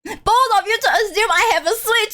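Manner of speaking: high, laughing comeback; playful high-pitched retort. Real, not acted. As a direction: fire back in mock outrage.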